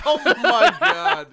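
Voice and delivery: real laughing fit at his friend's joke. Real, not acted. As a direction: lose it laughing. Cracking up at crude joke.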